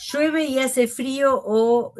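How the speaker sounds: slow, drawn-out grouping of "Llueve y hace frío"; deliberate pause. Shown as a demonstration. Logic teacher showing students the grouping. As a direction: stretch "Llueve y hace frío o" with a pause before the next part. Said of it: "Ahí hice una pausa a propósito".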